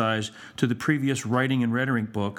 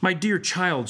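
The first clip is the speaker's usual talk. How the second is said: raised, sugary schoolmaster address; benevolent; 7 semitones higher, slower than usual. A narrator's reading. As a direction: coo it with feigned kindness. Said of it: "offering benevolent advice".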